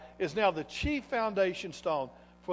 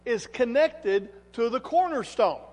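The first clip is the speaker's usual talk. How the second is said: raised, higher preaching voice; emphatic preaching; 4 semitones higher, 8 dB louder than usual. Acted. Preacher declares God accepted Jesus to congregation, emphatic preaching. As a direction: proclaim it loudly, leaning on key words.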